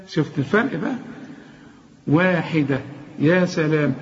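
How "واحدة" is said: واحدة with a clear و and light د; every letter light. Shown as a demonstration. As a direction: articulate واحدة letter by letter, all thin sounds. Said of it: "وشوف الدال".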